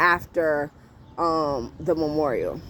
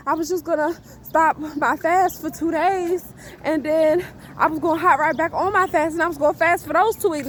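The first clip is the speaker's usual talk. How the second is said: own excuse, mocked; 8 semitones higher than usual. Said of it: "so what you plan on doing".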